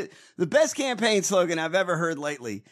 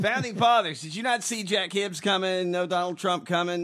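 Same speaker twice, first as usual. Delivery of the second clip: raised-pitch exasperated address; mock scolding; 3 semitones higher than usual. Host berating the Founding Fathers, mock scolding. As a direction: call out the founders in disbelief.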